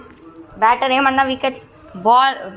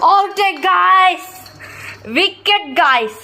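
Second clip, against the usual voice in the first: excited cricket commentary; 4 semitones higher, much slower than usual. Real, not acted. Commentator calls the wicket.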